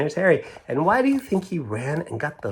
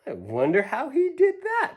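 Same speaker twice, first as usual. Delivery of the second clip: higher, laughing wonder; amused Grandma; 13 semitones higher than usual. Acted. Grandma wondering at the bird with a laugh. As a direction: chuckle through it. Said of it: "said Grandma".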